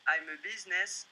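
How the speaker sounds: French-accented English, "I'm" stressed, "businessman" unstressed; French accent in English with the weight on "I'm". Shown as a demonstration. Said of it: "Excusez-moi pour mon accent".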